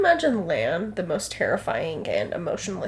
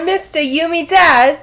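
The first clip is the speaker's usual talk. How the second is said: high, loud mock Cockney shout; hammed-up Cockney heckle; Cockney accent; 8 semitones higher, 12 dB louder than usual. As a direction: yell it like a Cockney urchin. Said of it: "or a Cockney British accent".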